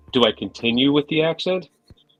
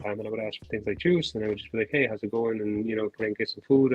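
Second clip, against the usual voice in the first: put-on mumbled thick Jersey accent; 2 semitones lower, 3 dB quieter than usual. Recalling how they talked as a Jersey kid, mumbled Jersey accent. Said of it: "that's how I would talk".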